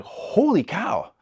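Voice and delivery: high, slow drawn-out amazement; amazed. Retold or imitated. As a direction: savor the shock of the bite. Fish suddenly strikes the pole.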